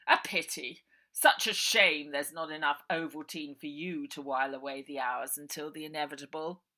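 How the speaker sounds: loud, falsely kind uncle voice; smooth villain. A narrator's reading. Uncle Arthur sending Bonnie to bed, falsely kind. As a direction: soothe the child while hiding menace.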